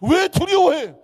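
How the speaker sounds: high, loud mock scolding; 호통치는 꾸짖음. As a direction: scold him as if slapping his back. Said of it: "이 말을 하려면 등짝을 쳐야 되겠더라고요". (등짝 치듯 크게 호통치며)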